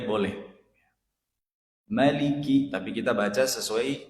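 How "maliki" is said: 'Maliki' with a short first vowel; don't hold the 'ma' in 'Maliki'. Shown as a demonstration. Teacher showing the allowed variant, short ma. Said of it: "bacanya pendek".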